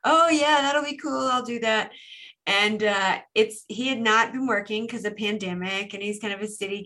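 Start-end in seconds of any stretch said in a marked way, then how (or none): 0.0-1.9 bright, eager yes; eager friend. Retold or imitated. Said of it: "He's like".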